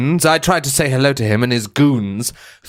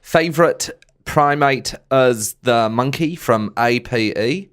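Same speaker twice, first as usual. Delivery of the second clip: put-on New Zealand accent. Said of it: "That's good Kiwi".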